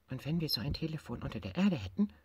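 imagining a secret phone; little tiger voice. Acted. Tiger dreams aloud to bear.

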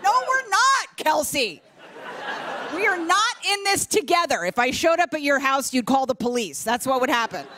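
high, indignant comeback; imagined retort to Kelsey; mock indignant. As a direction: snap back at the instructor.

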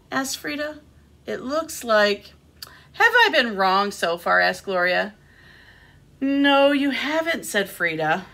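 animated picture-book reading with lifted character lines; expressive storytime delivery; reading to children. A narrator's reading. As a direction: read a story aloud to little listeners.

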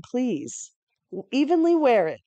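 ordinary talk, nothing marked

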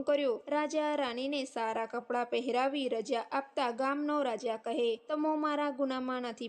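measured, even storytelling voice; devotional story narration. A narrator's reading. Narrator telling listeners the Dashama vrat katha, measured devotional storytelling. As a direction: recite the sacred tale at an unhurried, steady pace.

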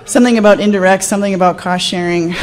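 laughing through the jargon; laughing mock quote. Mocking the budget person's email, laughing. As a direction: giggle while reading it out.

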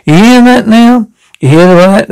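indignant outburst. Acted. Mocking the vicar's parting words.

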